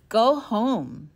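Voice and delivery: loud, booming wind voice; howling wind. A narrator's reading. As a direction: roar it like a storm. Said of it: "the wind squalled".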